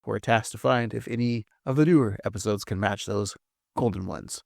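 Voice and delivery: newscaster voice. Acted. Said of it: "it sounds like you're trying to be, like, a newscaster".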